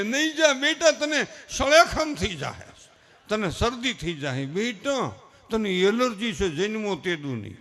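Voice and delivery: hammed-up worried mother, drawn out; doting mother. Mother warning son of a cold, slow mock plea. Mother fussing over only child.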